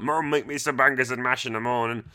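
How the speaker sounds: a hint of a kid begging mum for breakfast; kid asking mum. Kid imitated asking his mum for breakfast, light childish voice. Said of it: "Imagine that".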